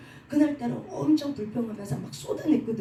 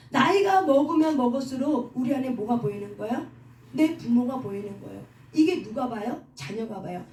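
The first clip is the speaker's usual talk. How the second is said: ordinary delivery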